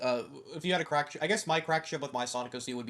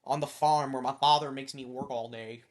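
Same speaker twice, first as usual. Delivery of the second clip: put-on Midwest accent. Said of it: "Jet ... with a Midwest accent".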